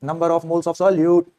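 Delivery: words stretched out evenly; slow dictation. Shown as a demonstration. Teacher writing the formula's numerator for students, slow dictation. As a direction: spell it out very slowly as if writing.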